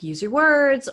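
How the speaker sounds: mock an impatient parent's order; exasperated parent. Parent to child mid-meltdown, exasperated.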